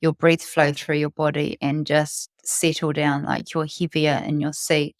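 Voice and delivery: calm guided meditation with long pauses. Real, not acted. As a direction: lead listeners into their breath, unhurried.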